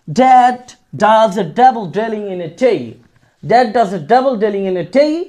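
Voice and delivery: slow, careful d sounds; slow tongue twister. Shown as a demonstration. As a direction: drag out every dad and double. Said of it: "ড করব". (ধীরে ড-এর উচ্চারণ)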